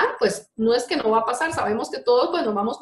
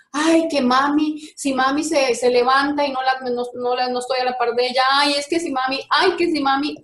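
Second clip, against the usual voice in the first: mock fretting; 2 semitones higher than usual. Child imitating Tiania's worries about grandmother, mock fretting. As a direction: imitate someone fussing over and over.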